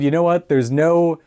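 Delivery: half-joking excited pitch for a remake; mock pitch. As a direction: sell the wild idea with playful excitement. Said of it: "if they just decided".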